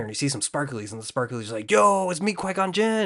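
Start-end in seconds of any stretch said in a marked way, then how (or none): 1.7-3.0 high, loud announcing voice; playful high-pitched hello; hammed-up spirit greeting. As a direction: announce yourself in a raised put-on voice. Voices sparklies announcing themselves.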